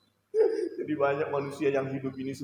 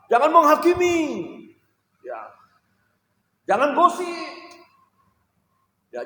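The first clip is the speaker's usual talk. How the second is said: high, loud listing of commands; fervent preaching; 12 semitones higher, 7 dB louder than usual. Real, not acted. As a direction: hammer each jangan home. (daftar larangan yang dikhotbahkan lantang)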